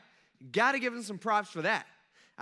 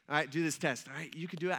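encouraging; 3 semitones lower than usual. Acted. Father handing his first grader a test, encouraging. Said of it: "I give him all the encouragement he needs".

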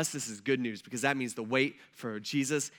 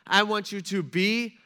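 slow, louder, higher insistent warning; urgent warning; 4 semitones higher, 5 dB louder than usual. Retold or imitated. Preacher voicing Jesus warning his disciples, slow and louder. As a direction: press each "I want you" home with urgency.

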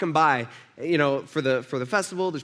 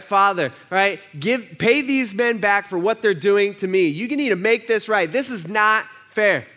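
louder, higher, indignant demand for payback; wrong demanding prayer; 4 semitones higher, 5 dB louder than usual. Pretend. Preacher mimics a wrong prayer, demanding and indignant. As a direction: insist God make it right, aggrieved. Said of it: "That's not what he says".

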